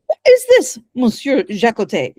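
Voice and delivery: high, loud opening on the question; indignant narrated question; sharp demand. A narrator's reading. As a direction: challenge the lodger, pitch leaping up then settling. Acted confrontation in read-aloud scene.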